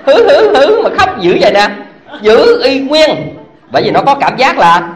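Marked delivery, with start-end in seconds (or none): 0.1-0.8 mock child whimper. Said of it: "Nó khóc mà vẫn giữ vậy nè".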